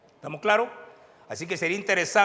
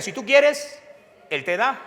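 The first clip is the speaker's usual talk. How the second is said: high, loud repeat of the chant; loud echo; 8 semitones higher, 7 dB louder, slower than usual. Shown as a demonstration. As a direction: say it back with the crowd.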